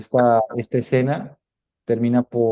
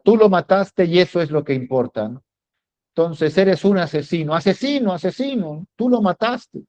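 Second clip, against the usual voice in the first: villano que acusa, más agudo y subiendo, repitiendo asesino; voz de Scar; 6 semitones higher than usual. Retold or imitated. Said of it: "Y le dice Scar". (Scar acusa a Simba, burlón y agudo)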